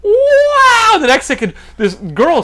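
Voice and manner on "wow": high, loud gasp of wonder; awestruck wow. Retold or imitated. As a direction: gasp like you've seen the future. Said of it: "imagine me one second going".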